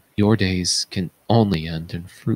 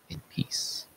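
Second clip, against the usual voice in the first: a soft final whisper; whispered close; 13 dB quieter than usual. Acted. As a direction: let the ode end in a whisper. Last words of choral ode.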